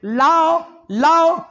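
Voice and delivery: loud, high drawn-out order; calling out. Retold or imitated. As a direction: call to a helper across the shop, stretching each word. Shop owner calls for glass.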